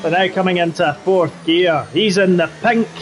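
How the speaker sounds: put-on Scottish accent. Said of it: "do the rest of the race in the Scottish accent".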